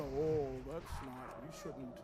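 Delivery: prissy scolding men. Retold or imitated. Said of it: "Men go".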